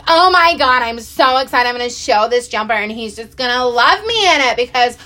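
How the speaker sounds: high, eager gush; about to show her husband the jumper, eager and excited. Retold or imitated. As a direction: bubble over with anticipation. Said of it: "So I was, like, so excited".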